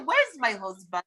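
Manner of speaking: playful put-on French accent; comic French accent. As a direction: ask it in a mock French accent. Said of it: "I prefer my French accents".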